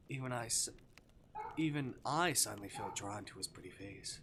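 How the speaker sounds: measured, lingering narrator delivery; story narration. A narrator's reading. Prisoner describing the demon's unmasked face, awed storytelling.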